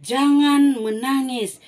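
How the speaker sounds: Jesus to the mourners, firm slow command. Acted. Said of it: "Tuhan Yesus bilang begini".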